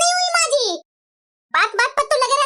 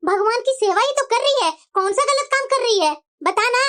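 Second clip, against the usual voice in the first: lower, tired mother-in-law; a weary old lady sighing at a quarrel; old woman, lower voice; 7 semitones lower than usual. Acted. Mother-in-law wearily answering angry daughter-in-law, lower voice.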